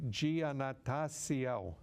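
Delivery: Giannattasio said slowly, syllable by syllable; careful name attempt. Real, not acted. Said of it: "here I'm gonna screw up your name".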